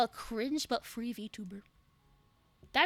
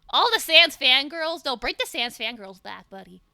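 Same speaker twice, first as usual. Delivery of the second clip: louder, slowed call-out; dramatic call; 6 dB louder than usual. Acted.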